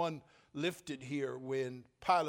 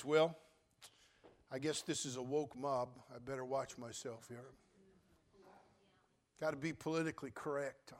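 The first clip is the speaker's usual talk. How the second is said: Pilate's thoughts; 2 semitones lower, 5 dB quieter than usual. Acted. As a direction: mutter it to yourself. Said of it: "he thinks".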